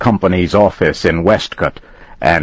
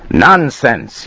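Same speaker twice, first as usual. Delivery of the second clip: shout; 6 semitones higher than usual. Acted. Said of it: "he shouted".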